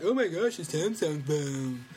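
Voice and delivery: mock excitement. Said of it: "No one would be like".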